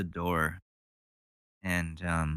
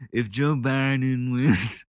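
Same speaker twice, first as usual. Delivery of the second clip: mock impression of him; 3 semitones higher, slower than usual. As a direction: lightly mimic the speaker's odd delivery. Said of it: "What the fuck is that?".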